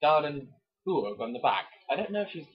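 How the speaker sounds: hammed-up dramatic reading of a romance novel; romance novel narration. Reading a Mills and Boon chapter to his co-host, mock dramatic. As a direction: read it like a breathless bodice-ripper.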